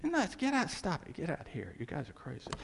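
high, scoffing "You're nuts", dropping to soft, muttered disbelief; scoffing Thomas. Retold or imitated. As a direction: sneer at them, then wave them off quietly. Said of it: "he said".

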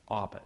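Abba said plainly as AH-buh; pronouncing Abba. Shown as a demonstration. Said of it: "Just say Abba".

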